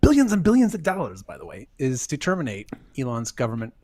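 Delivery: a hint of Trump voice; hammy dramatic reading. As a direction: read it like a grand speech. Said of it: "Can you do a dramatic reading of this for us?".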